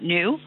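"new" said as nyoo; new with yod. Shown as a demonstration. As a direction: keep the y-glide in "new". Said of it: "continue to pronounce it".

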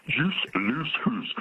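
put-on slow, broad Scottish accent on "Juice loose hoose". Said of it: "In a Scottish accent".

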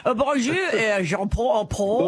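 playful stab at French pronunciation; French accent. Pretend. Host greeting the caller in a mock French accent. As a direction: try a jokey French greeting.

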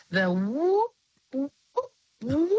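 rising whale call imitation; imitated whale whoop. Shown as a demonstration. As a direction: whoop like a humpback. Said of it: "sounds that a whale makes".

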